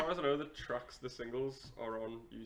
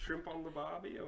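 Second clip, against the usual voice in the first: put-on Australian accent.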